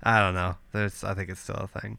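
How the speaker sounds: stuffy, blocked-nose voice. Real, not acted. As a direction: talk through a blocked nose. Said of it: "I can't breathe out of my nose".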